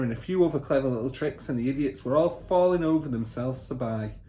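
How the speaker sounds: lightly voiced smug car dealer father; boastful father. Father bragging to son about cheating buyers, lightly smug.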